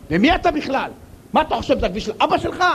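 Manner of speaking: fast, mildly angry retort; mock road rage. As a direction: snap back at the other driver, fast. Driver yelling from window.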